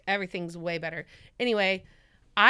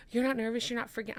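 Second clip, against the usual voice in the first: contained nervous questioning; scared, not loud; 4 dB quieter, much faster than usual. Retold or imitated. Sweating flyer to her calm cameraman, scared but not loud. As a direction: fret at them without raising your voice. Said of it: "I'm not loud, but I'm, like, scared".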